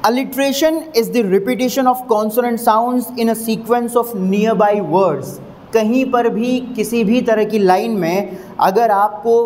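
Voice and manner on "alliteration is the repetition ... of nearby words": slow, word by word English definition; reading the definition aloud to students, slowly. Shown as a demonstration. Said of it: "reading the definition slowly".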